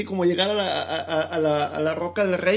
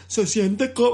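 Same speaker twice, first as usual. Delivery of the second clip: dubbed movie voice; 4 semitones higher, slower than usual. Retold or imitated. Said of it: "qué pinche película doblada siquiera dice".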